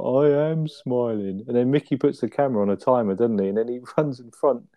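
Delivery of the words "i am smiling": deadpan. Retold or imitated. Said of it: "Trig's like".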